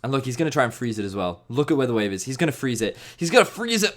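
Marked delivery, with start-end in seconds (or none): 3.2-3.9 high, anguished melodramatic repeat. Real, not acted. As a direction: cry it out melodramatically. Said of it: "I was more melodramatic than I needed to be".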